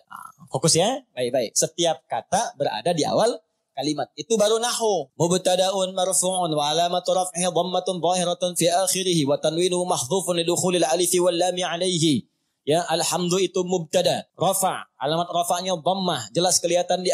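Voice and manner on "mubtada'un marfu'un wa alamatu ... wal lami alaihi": steady, even recitation of the i'rab formula. Shown as a demonstration. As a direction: recite the grammar rule in one steady tone. Guru membaca i'rab dalam bahasa Arab. (membaca i'rab dengan nada datar berirama)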